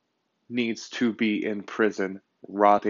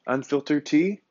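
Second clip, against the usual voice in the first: sung-out title, higher and louder with a lift at the end; host hyping his new podcast name to listeners, title rising brightly; show title call; 6 semitones higher, 4 dB louder than usual. Acted. Announce it like a jingle.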